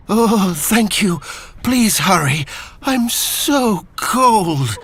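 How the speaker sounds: shiver the words out, freezing. Acted. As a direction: Benji clinging to the buoy, shivering. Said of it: "shivered Benji".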